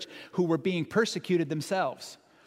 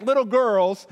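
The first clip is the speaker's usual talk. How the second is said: higher squeal; 6 semitones higher, 8 dB louder, slower than usual. Retold or imitated. Mocking scared fishermen.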